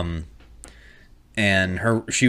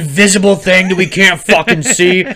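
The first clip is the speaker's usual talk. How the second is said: raised mock-outraged accusation; imitated anger; 4 semitones higher, 4 dB louder than usual. Roommates blaming the kid for covid, mock angry. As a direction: rant like an indignant roommate. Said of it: "they're getting mad at my oldest".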